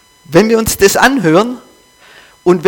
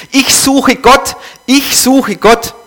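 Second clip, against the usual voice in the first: slow, high, raised cry; 7 semitones higher, slower than usual. A narrator's reading. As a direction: call out desperately, drawn out. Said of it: "unaufhörlich schrie".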